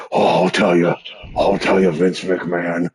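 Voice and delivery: lightly done gravelly wrestler voice; Jesse Ventura. Acted. Host imitating his favorite wrestler, a hint of gravel. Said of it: "That's where my gravelly voice comes from".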